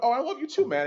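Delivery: sweet overeager reply to the pro player on camera; retold gushing reply. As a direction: gush it back high and loud. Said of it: "I went".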